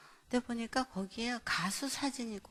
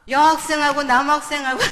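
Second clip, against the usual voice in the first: loud, higher-pitched accusation; acted scolding; 5 semitones higher, 17 dB louder than usual. Mother confronts child about boy and girl picture, loud scolding. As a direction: throw it out as an outraged parent's accusation.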